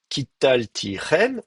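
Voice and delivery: slow, evenly separated syllables; careful half-speed dictation. Shown as a demonstration. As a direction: set out each syllable in turn. Models the complete form.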